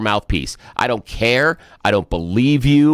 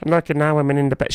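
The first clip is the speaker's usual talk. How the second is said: mocking quote; 6 semitones higher, faster than usual. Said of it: "come out and say".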